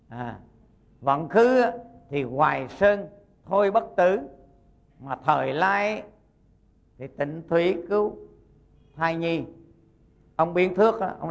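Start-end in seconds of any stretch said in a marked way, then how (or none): 1.0-9.5 slow, measured recitation with drawn-out words; reciting a verse. Shown as a demonstration. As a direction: recite it phrase by phrase, pausing between. Recites an old verse saying.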